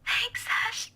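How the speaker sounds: hitching voice. Acted. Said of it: "her voice hitches, almost as if she's in tears".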